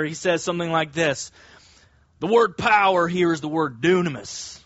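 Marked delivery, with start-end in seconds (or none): 2.2-4.6 lightly voiced earnest preacher type; a hint of a hyped-up evangelical preacher; evangelical umbrella man voice. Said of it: "put on my evangelical umbrella man voice here".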